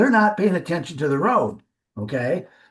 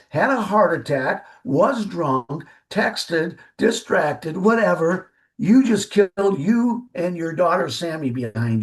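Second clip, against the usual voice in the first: stern voice. Retold or imitated. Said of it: "I was just in a stern voice talking to her".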